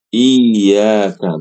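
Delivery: "Iyyaka" pushed out with a head nod; the wrong nodded "Iyyaka"; nodding reading. Shown as a demonstration. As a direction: stress "Iyyaka" by bobbing the head. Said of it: "kepalanya jadi manggut".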